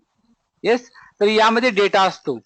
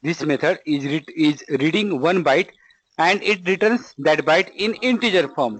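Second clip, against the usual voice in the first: slow, word-by-word dictation pace; much slower than usual. Acted. Teacher dictating a definition to students, slow and measured. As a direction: spell it out slowly so students can write it down.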